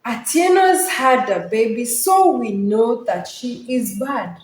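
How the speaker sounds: put-on "baby" runs straight into "so we know", no pause; run-on lines. Shown as a demonstration. Teacher demonstrates enjambment, no pause at line end. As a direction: carry "Atieno's had a baby" on into "so we know that she is bad". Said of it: "I will not pause because of the run-on lines".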